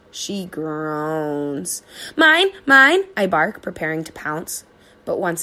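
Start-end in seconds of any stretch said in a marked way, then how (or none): 2.1-3.0 eager dog. A narrator's reading. Dog about to pounce.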